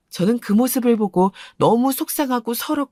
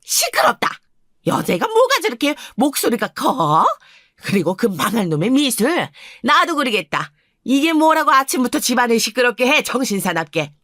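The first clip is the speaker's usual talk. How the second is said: scolding grandmother; 4 semitones higher than usual. Acted. Narrator voices grandma.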